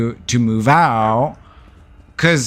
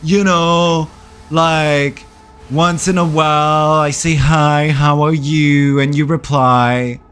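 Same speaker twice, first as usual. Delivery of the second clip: slow, lightly mocking ex impression; a hint of a put-on boyfriend drawl; mocked ex voice; 3 dB louder, slower than usual. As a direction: drag out his casual explanation in mimicry. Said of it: "That's how he speak in my mind".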